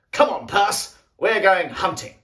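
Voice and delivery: rally a mate to come along; calling out. Acted. Captain rouses his friend in story.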